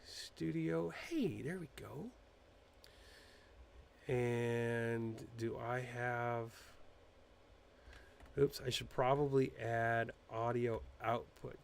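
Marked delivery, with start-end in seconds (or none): none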